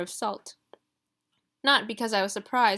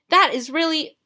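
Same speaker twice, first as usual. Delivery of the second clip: much louder, higher outburst of outrage; Marley exploding at Ruby's cheek; outraged cry; 7 semitones higher, 10 dB louder than usual. Acted. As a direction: sputter with indignation. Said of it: "cried Mister Marley".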